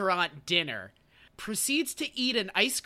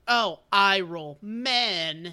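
slow sultry brush-off; much slower than usual. Retold or imitated. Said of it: "She's like".

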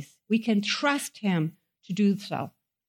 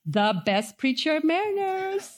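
boastful preacher; 2 semitones higher than usual. Pretend. Pastor mocking an arrogant preacher to the chapel, smug boast. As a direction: play the arrogant preacher bragging to the congregation. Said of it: "it's like me saying to you".

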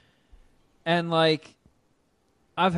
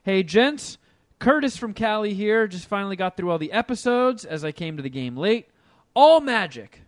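upbeat read-aloud voice; reading an email aloud; 3 semitones higher than usual. Acted. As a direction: read the listener email brightly. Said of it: "We'll do one email".

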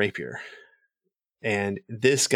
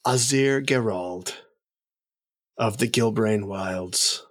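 courtly noble announcing a guest, lightly raised pitch; formal announcement; 3 semitones higher than usual. Acted. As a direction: present the emissary with ceremony. GM voices noble introducing emissary.

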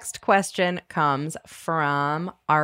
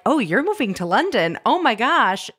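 excited reaction; 4 semitones higher, 3 dB louder than usual. Retold or imitated. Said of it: "people be like".

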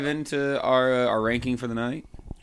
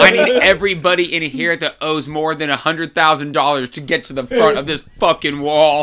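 metal frontman shout; 5 semitones higher, 10 dB louder than usual. Pretend. Metal frontman rallying the crowd.

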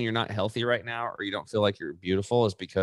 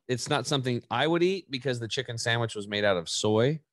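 ordinary talk

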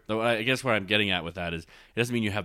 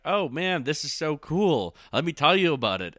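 higher and enthusiastic, slowing on cool; excited friend; 7 semitones higher, 3 dB louder than usual. Retold or imitated. Friend eagerly sharing a favourite thing, excited and high. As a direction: gush about something you love. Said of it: "You're like".

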